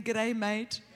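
Australian accent for the crowd to echo. Shown as a demonstration. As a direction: model an Australian greeting. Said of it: "Say it again".

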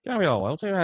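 put-on a second, bigger try at a Donegal accent. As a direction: exaggerate the Donegal accent, pitch climbing. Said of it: "combine that with a Donegal accent".

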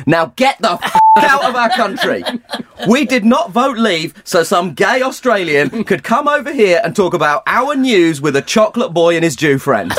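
mock xenophobic rant.

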